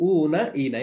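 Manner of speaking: long oo and ee in "উ না ই না"; pronunciation of endings. Shown as a demonstration. Teacher summing up plural endings, pronouncing "উ না ই না" distinctly. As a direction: sound out "উ না ই না" as oo-na, ee-na. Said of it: "এরকম".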